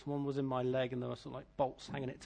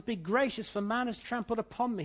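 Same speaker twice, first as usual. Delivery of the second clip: heartfelt plea, raised pitch; crying out; 6 semitones higher than usual. Retold or imitated. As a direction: cry out to God, mildly impassioned. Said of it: "he cries out with all his heart".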